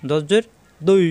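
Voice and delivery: "দুই" thick, tongue edge on upper molars; weighty d sliding to i in "দুই"; heavy Arabic dad. Shown as a demonstration. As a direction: slowly spell "দজ্জের", then a dark "দুই". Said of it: "জিহ্বার গোড়ার কিনারা".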